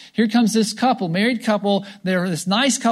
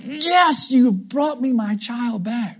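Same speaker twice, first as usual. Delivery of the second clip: a lightly voiced, joyful God; a high, glad father welcoming his child home; 4 semitones higher, slower than usual. God rejoicing over the returned child, lightly voiced. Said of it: "God's like".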